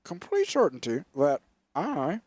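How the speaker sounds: put-on rambling, stumbling old-man voice; a hint of a confused old politician; mock Biden insisting he is lucid; imitating Biden. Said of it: "And he goes".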